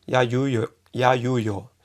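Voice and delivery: "Ya, yu, yo" as separate glide syllables; Japanese Y sounds. Shown as a demonstration. Teacher listing existing sounds, Japanese Y syllables. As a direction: recite "ya, yu, yo" evenly. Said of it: "existen los sonidos ya".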